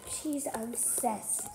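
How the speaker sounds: slow whispered aside; whispering. Real, not acted. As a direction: whisper it slowly. Aside about sister, whispered.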